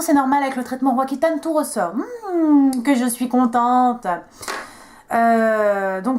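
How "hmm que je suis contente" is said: drawn-out, swooping sarcastic "so happy"; mock delight. Vlogger on her skin breaking out from treatment, mock delight. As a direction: feign delight with a long hum first. Mock joy about acne flare-up.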